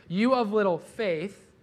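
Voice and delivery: put-on slow, loud, gentle scolding as to a small child; fond, slow parental reproach; tender parental rebuke. Shown as a demonstration. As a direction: chide lovingly, like a parent. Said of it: "It's kind of like a parental".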